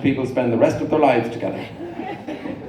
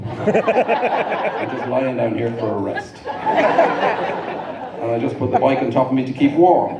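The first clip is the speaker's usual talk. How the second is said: slow, dry retold sarcasm; deadpan sarcasm; 2 semitones lower, slower than usual. Fallen cyclist answering a lady who stopped, sarcastic. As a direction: state the absurd excuse slowly and drily. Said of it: "before I could stop myself".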